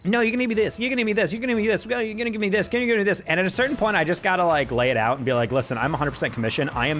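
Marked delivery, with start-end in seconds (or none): 0.0-3.2 mimicking pushy customers. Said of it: "they just keep, like".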